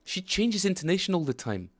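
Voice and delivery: gleeful comment to chat; excited laughing remark. Real, not acted. Laughing at the translator.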